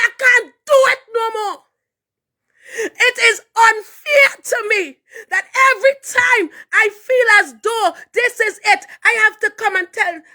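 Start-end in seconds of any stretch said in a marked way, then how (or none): 0.0-9.1 crying. Real, not acted. Retelling despair, crying heard.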